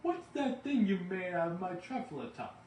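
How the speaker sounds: high, loud, indignant demand; angry Lorax yelling; upset shouting Lorax. A narrator's reading. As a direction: puff and shout in outrage. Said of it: "he was very upset as he shouted and puffed".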